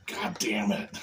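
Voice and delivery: very low, quiet, far-off Jesus voice; deep Jesus voice. Acted. Puppet Jesus announcing his return to everyone, very low and quiet.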